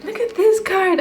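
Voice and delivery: can't keep a straight face; real amusement in the voice; laughing. Real, not acted. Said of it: "I don't know why it's making me laugh".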